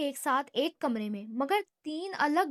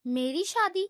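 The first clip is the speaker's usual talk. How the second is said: higher, astonished question; surprised; 4 semitones higher than usual. Acted. Aman, stunned, asks about his own marriage. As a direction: caught off guard. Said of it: "حیرانی سے کہا".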